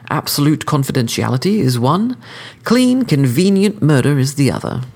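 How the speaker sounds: cold, matter-of-fact confession; calm assassin voice. Acted. Skidmire's voice in courtroom story.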